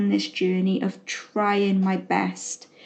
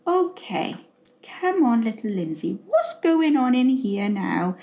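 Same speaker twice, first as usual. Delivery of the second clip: quiet self-soothing. Retold or imitated. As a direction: soften it like calming a little girl. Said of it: "sit quietly and say".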